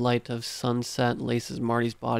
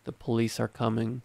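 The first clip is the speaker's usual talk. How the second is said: flat; 3 dB quieter than usual. Acted. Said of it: "I say flatly".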